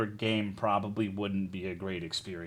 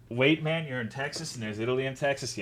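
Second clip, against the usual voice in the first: ordinary talk, nothing marked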